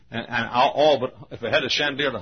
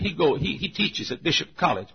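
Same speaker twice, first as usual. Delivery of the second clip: slightly raised Southern dialect voice; imitated Southern deacon; 5 semitones higher than usual. Deacon telling visitor about the pastor, Southern dialect. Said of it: "This is the way all of us Southerners talk".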